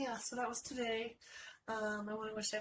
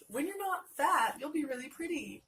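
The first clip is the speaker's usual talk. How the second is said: mock blunt paraphrase; 5 semitones higher, 5 dB louder than usual.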